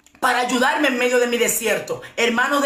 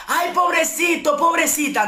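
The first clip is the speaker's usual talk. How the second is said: mock pity; 5 semitones higher than usual. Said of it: "people pitying her".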